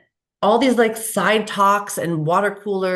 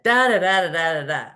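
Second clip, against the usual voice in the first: angry reading; 3 dB louder than usual. Retold or imitated. Woman reading a colleague's email to a friend, mock-indignant. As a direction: read the "da, da, da" as an offended outburst. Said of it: "Or you could read it like this".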